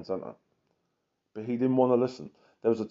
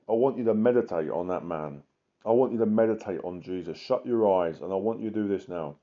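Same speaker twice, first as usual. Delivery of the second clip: guided meditation; 2 semitones lower than usual. Acted. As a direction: lead them gently into prayer. Leads a meditation on Jesus.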